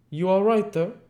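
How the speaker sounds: high, loud and sharp call through the door; sharply. Acted. Hall calling through the parlor door, sharp and loud. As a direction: rap out the question sharply. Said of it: "sharply again".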